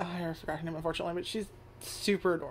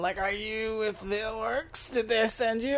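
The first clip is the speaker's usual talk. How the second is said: put-on slow old man voice; 4 semitones higher than usual. Speaker acts out a line while retelling a story, weird old fantasy RPG man voice. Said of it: "I'm talking like some weird old man from like a fucking fantasy RPG".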